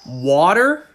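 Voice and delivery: water with an open ah vowel, rising at the end; own pronunciation. Shown as a demonstration. Showing viewers the speaker's own way, ah-sounding water. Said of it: "I pronounce it".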